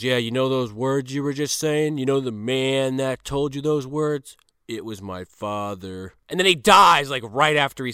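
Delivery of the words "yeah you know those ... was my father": grim quiet reveal. Retold or imitated. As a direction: let the last words sink to a hush. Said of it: "he goes".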